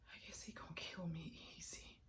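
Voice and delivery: very soft, breath-led murmur; hushed resignation. Acted. Woman expecting to be killed, hushed resignation. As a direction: let the voice sink to near whisper.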